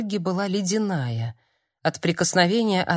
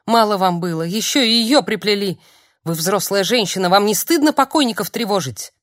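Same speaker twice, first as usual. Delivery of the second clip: loud, rising reproach; angry accusation; 5 dB louder than usual. Acted. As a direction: shame her for disturbing the dead. Olga accusing visitor in rage.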